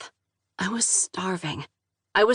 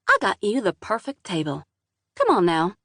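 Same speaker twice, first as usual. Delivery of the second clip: southern drawl. Acted. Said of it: "thick southern drawl".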